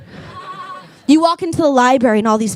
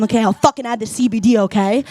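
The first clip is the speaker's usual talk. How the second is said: fast, fed-up snap; exasperated giving in; 4 semitones lower, faster than usual. Retold or imitated. Giving in to the barista, fast and fed up. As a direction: cave in just to end it. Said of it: "and I'll, I'm".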